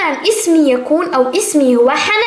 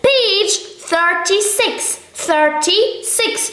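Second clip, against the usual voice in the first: slow drilled model; 2 semitones higher, much slower than usual. Shown as a demonstration. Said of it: "teacher drilling English numbers".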